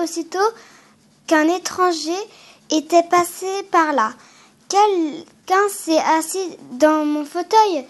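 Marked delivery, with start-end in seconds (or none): 4.7-7.8 a lightly voiced Papa Bear, slow and heavy; slow, weighty papa bear, only a hint of gruffness; big gruff bear voice. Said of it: "d'une très grosse voix". (légère grosse voix de papa ours, lente)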